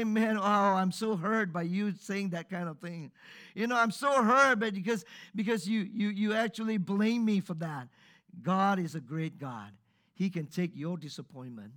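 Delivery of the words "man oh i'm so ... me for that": a lightly voiced, wounded whine, louder; mock hurt God. Preacher mocking a sulky God for the congregation, lightly wounded whine. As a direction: play a sulky, offended God, half-joking.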